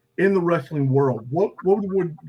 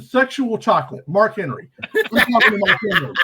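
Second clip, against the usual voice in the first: excited; 4 semitones higher than usual. Retold or imitated. Excited son tells dad on phone.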